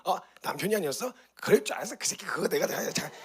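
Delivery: mock a spiteful wife turning on her husband; playful mock of a bitter wife's outburst; mock grudging outburst. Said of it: "이렇게 돌아가지 않고요".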